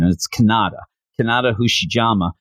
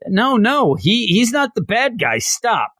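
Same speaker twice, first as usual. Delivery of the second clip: put-on much higher, pleading girl crying stop; 11 semitones higher than usual. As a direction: protest like a desperate schoolgirl. Aries protesting the arrest.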